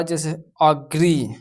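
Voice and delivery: agree, slow, with a short uh-sound first; agree said slowly. Shown as a demonstration. Teacher shows A read as uh, slow agree. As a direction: stretch out agree clearly. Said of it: "ए को अ भी पढ़".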